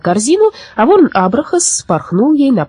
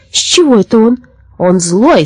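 mildly raised, protesting cry; indignant cry; 5 semitones higher, 4 dB louder than usual. Acted. Old women complaining about the new forester, indignant cry. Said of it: "закричали старушки".

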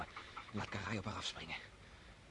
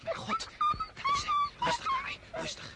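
much higher, louder gasping exclamation; excited; 9 dB louder than usual. Acted. Young hunter seeing the wolf and holding his dog, high excited. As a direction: catch your breath as the wolf appears.

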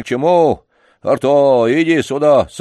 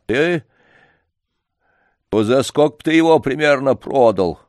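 solemnly; 3 semitones higher, 3 dB louder than usual. Acted. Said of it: "начал он не без торжественности".

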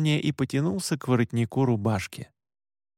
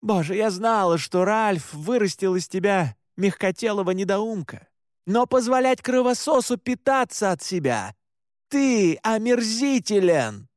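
contemptuous rant; 6 semitones higher than usual. Acted. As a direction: spit the disgust at him. Mother berates her son.

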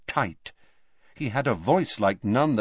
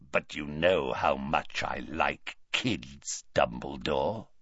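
lower, softer slow rasping menace; 7 semitones lower, 6 dB quieter than usual. A narrator's reading. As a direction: let the menace creep out in a rasp. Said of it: "a rasping bark of a voice".

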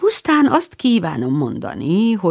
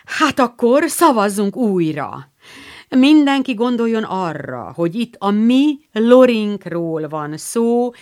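excited call; 4 semitones higher than usual. Acted. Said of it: "kiáltotta izgatottan".

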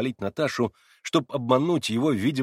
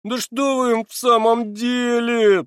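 much higher, slow and louder; plaintive; 13 semitones higher, 8 dB louder, much slower than usual. A narrator's reading. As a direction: wail it like a hurt boy. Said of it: "жалобным голосом". (жалобным голосом, выше и медленно)

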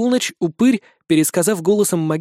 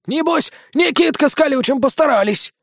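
higher, grudging vampire; vampire's voice; 8 semitones higher than usual. A narrator's reading. Vampire recalls old battles, high and grudging. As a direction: grumble it knowingly as the vampire.

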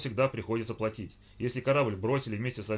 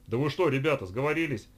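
raised, louder protest of dismay; disappointed; 5 semitones higher, 6 dB louder than usual. A narrator's reading. Vanya seeing everyone refuse more drink, disappointed. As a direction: object as if let down by friends. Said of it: "разочарованно поглядел на них Ваня".

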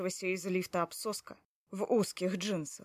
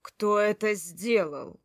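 growled; 4 dB louder, slower than usual. Acted. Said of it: "прорычал он".

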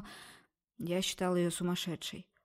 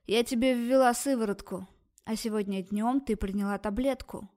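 louder rough snap; rude shout; 3 dB louder than usual. Acted. Doctor rudely yelling at the girl, loud. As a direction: bark it at her rudely. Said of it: "грубо выкрикнула".

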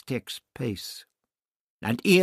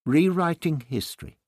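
calmly; 7 semitones higher, 3 dB louder than usual. Acted. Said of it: "Barbara said calmly".

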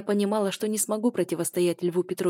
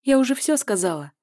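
higher and louder, shutting him out; final cold snap; 6 semitones higher, 7 dB louder than usual. A narrator's reading. Woman ends the call with her ex, higher and louder. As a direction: end it, no more talk.

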